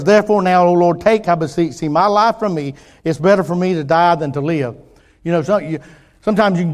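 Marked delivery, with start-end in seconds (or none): 0.0-4.8 pleading Jonah. Acted. Reads Jonah's plea from verse.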